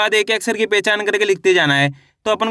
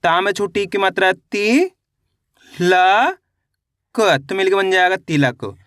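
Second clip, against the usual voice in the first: sounding out. Shown as a demonstration. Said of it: "तेजी के साथ आपको इसका उच्चारण निकालना है".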